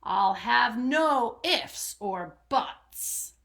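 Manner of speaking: a hint of a snarling robber; snarling rat. Storyteller voicing the rat snarling at the squirrel, mock snarl. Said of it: "snatched the snack and snarled".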